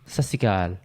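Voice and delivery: Sat Sri Akal run together quickly, syllables swallowed; mispronounced greeting. Real, not acted. Co-host opening the podcast with a greeting, mispronounced. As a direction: rush "Sat Sri Akal" into one short, low blur. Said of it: "say it properly".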